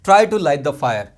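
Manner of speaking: slow, clear classroom reading; slow example read. Shown as a demonstration. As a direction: read it out slowly for learners. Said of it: "Same ways". (धीमे साफ़ उच्चारण)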